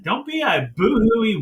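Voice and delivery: ordinary talk, nothing marked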